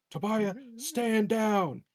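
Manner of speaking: crisp naval commands; slow, high barked military order; officer voice. Acted. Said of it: "my best officer voice".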